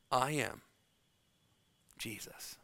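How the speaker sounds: soft whispered reveal of the name, almost silent on Jesus; a whispered divine revelation; hushed whisper. Acted. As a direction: breathe I am Jesus in an awed whisper.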